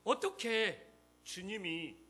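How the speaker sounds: loud, insistent sermon delivery; emphatic preaching. Real, not acted. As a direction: drive the question home to the congregation. Preaches with force to congregation.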